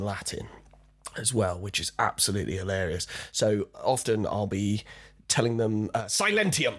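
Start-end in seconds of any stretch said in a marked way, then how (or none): 6.0-6.8 commanding Roman soldier. Retold or imitated.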